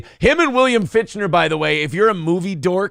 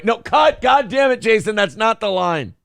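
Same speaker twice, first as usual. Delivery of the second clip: high, mock-exasperated outburst; exasperated director; 5 semitones higher than usual. Director scolding actor for wrong line, high exasperated cry. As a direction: cut the take off in hammed-up frustration.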